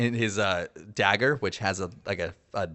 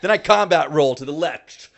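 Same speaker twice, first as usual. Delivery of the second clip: higher and louder, pumped action rundown; excited play-by-play; 7 semitones higher, 8 dB louder than usual. Real, not acted. Player to the game master, hyped while describing the attacks. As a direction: call each move like a movie stunt.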